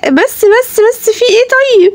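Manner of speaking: loud, high-pitched exasperated shushing; frantic hushing. Acted. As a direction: plead over a child's bawling. Hushing a bawling child, exasperated.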